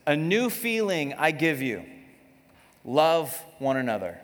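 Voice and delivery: lightly solemn quoting voice; mock scripture reading. Pastor reading a fake verse to the congregation, mock solemn. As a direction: read the made-up verse like scripture. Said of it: "I made that up".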